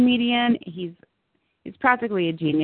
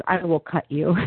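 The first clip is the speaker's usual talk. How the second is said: Crazy Eyes voice; 4 semitones lower than usual. Acted. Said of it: "That's my famous line".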